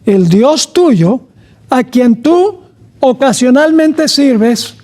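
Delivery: slow, "ocasionalmente" said deliberately wrong; wrong version. Shown as a demonstration. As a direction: stress "tú ocasionalmente" slowly as the mistaken reading. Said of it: "no dice ocasionalmente". (lectura equivocada, "ocasionalmente" lento)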